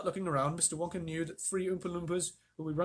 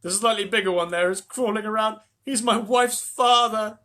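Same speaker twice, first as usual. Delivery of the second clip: amused; 6 semitones higher, 10 dB louder than usual. A narrator's reading. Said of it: "smiling happily".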